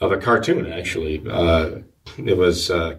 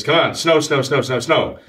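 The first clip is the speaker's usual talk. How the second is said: higher-pitched mock impatience, repeating insistently; mildly aggravated; 5 semitones higher than usual. Retelling young Calvin's wait for snow, mildly aggravated. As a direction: act out a boy getting a little fed up. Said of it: "He's getting a little bit aggravated here".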